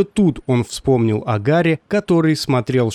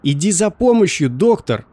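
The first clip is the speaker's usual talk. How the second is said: mild narrated shout, higher pitch; 6 semitones higher than usual. A narrator's reading. Harry cries to the doctor for help, mild shout. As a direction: call out urgently, pitched up. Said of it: "кричал он".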